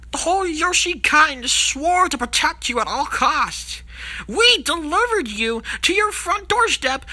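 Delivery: betrayed, accusing outburst; aggrieved rant. Acted. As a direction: build a wounded case against a betrayer. Betrayed Yoshi lists what he did.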